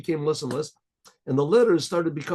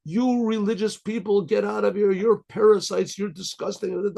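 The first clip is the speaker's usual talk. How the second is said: higher-pitched, mildly angry mock yelling; imitated outburst of screamed insults, only slightly raised; retold screaming tirade; 5 semitones higher than usual. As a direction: scold in a raised pitch, imitating someone cursing. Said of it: "she started screaming at her and cursing".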